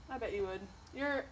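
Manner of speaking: chewing while talking; talking through a mouthful of food; mouth full. Real, not acted. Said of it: "see, now I'm chewing".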